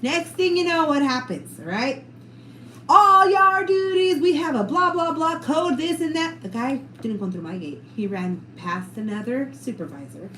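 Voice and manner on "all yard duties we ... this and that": slow, louder, higher PA call; intercom announcement. Retold or imitated. Staff radio calling all yard duties, slow loud announcement. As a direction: read it like a school radio alert. School radio code alert.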